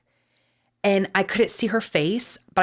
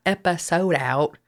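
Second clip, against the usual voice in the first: slow drawn-out Texas twang on episode; slower than usual. Real, not acted. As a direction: let the Texas drawl slip out, slowly. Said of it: "my Texas twang is coming out".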